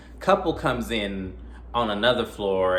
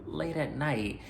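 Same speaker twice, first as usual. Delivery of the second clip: lightly put-on scared tone, pitched up and hushed; creeped-out viewer; 5 semitones higher than usual. Talking back to the heroine in the garage, mildly spooked. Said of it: "I am like".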